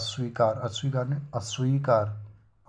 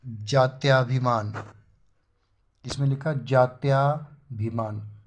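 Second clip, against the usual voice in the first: slow spelling out; 3 dB louder, slower than usual. Shown as a demonstration. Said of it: "बड़ा का डंडा नहीं लेगा".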